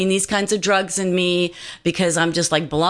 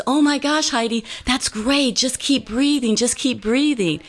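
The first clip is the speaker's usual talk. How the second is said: much higher, eager cheering on of a patient; excited encouragement; 6 semitones higher than usual. Retold or imitated. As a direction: burst out happily, urging her to keep going. Nurse excited, encouraging her.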